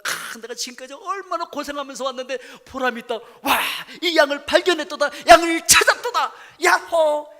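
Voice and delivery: high, loud, laughing cry of triumph; the shepherd finds the lost sheep and whoops with laughing delight; joyful shepherd shout. Pretend. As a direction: shout for joy at finding the sheep. Shepherd rejoices finding sheep.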